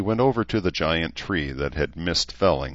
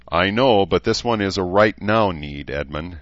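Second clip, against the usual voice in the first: a sharp, louder snap; snapped; 5 semitones higher, 6 dB louder than usual. Acted. She snaps at Edmund over the cloth, sharp and loud. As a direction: she snaps back at him, raised and higher. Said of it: "she snapped".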